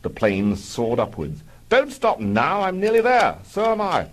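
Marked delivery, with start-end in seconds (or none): 1.7-4.1 high, loud, breathless-sounding build; mock ecstasy. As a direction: ham up the climax.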